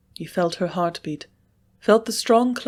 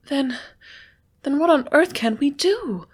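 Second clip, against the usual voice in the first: breaking spirit; 8 semitones higher than usual. A narrator's reading. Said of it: "with sudden break of spirit".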